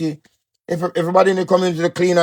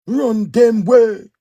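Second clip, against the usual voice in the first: slow drawn-out command; 8 semitones higher, 5 dB louder, much slower than usual. Acted. Urging listeners, repeated.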